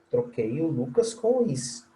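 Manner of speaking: usual speaking voice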